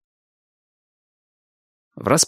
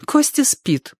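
higher, lightly voiced woman; woman's voice; 14 semitones higher, slower than usual. A narrator's reading. Wife answers the roof man, lightly voiced woman. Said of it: "ответил ему женский голос".

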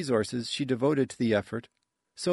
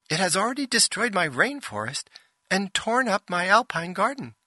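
high distressed lament; 8 semitones higher than usual. Acted. Ship laments destroyed gardens.

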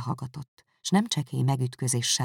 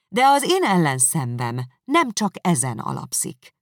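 heated reproach; 5 semitones higher, 7 dB louder than usual. Acted. Elizabeth presses on angrily.

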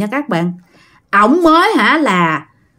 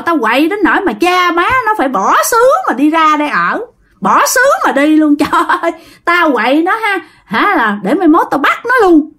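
lightly voiced spirit, higher and gloating; a hint of a menacing possessed man, pitched up; possessed man's retort; 5 semitones higher than usual. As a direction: boast about the havoc in a raised pitch. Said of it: "Nói vậy đó".

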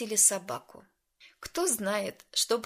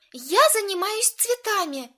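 high, loud snapping retort; exasperated exclaim; 11 semitones higher, 7 dB louder than usual. A narrator's reading. Lauren snaps back that she handles flowers. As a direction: fire it back, fed up. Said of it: "воскликнула она".

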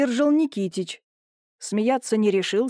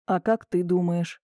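quiet pity; 2 semitones lower than usual. Acted. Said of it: "тихо, словно с жалостью спросил Юрий".

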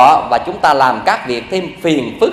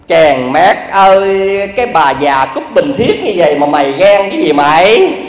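amused scolding. Retold or imitated. Mother-in-law scolding with a laugh.

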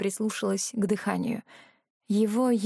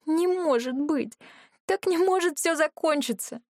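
despairing denial; 7 semitones higher than usual. Acted. Despairing denial over dying dragon.

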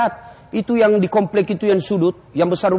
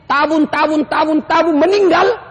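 building exclamation; 7 semitones higher, 4 dB louder than usual. Acted. Men saving money then dying.

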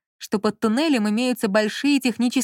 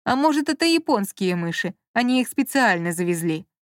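teasing. Acted. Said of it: "поддразнил Лёня".

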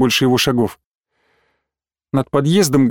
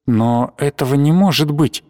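plain reading voice

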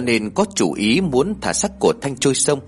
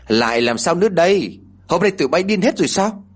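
exasperated yell; 7 semitones higher than usual. Acted. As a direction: bark it out, fed up. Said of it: "Cô lại quát".

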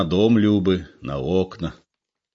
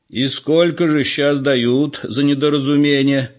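put-on old man's voice; 7 semitones higher, 4 dB louder than usual. A narrator's reading. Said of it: "спросил старик".

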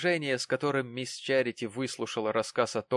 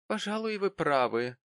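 mildly resigned, falling tone; sighing concession; 7 semitones higher than usual. A narrator's reading. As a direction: start high and fall away. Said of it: "сказала миссис Тоджерс со вздохом".

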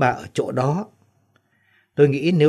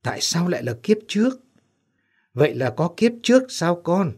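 trembling; 5 semitones higher than usual. A narrator's reading. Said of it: "Bà Hương run rẩy".

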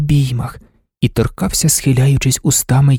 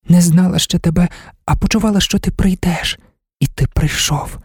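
slow, brooding Marta; 4 semitones higher than usual. A narrator's reading. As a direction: muse aloud in a hushed girl's voice. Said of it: "сказала поволі".

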